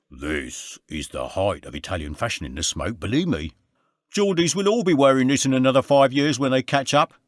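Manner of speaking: high, bright Londoner greeting his mate; Andy's cheery greeting. A narrator's reading.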